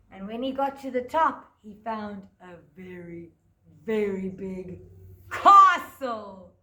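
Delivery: put-on lively storytelling for small children; story narration. A narrator's reading. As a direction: tell it like a picture-book story to a class. Teacher tells Jack story.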